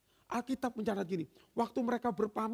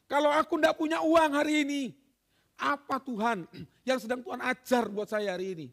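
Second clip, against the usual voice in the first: louder, pleading prayer to God; earnest prayer; 3 semitones higher, 5 dB louder than usual. Pretend. Believer asking God what the lesson is, loud and earnest. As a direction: cry out the question to God. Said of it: "Kita harus bertanya".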